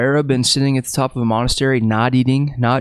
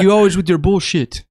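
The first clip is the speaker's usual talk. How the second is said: higher-pitched, put-on fed-up complaint; mock exasperation; 7 semitones higher, 3 dB louder than usual. Dad fed up with his son's pranks, mock exasperation. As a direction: play up the dad's irritation.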